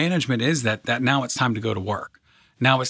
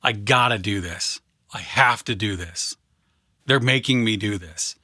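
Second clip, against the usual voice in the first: grudging obligation; 3 semitones lower than usual. Retold or imitated. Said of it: "It could have been".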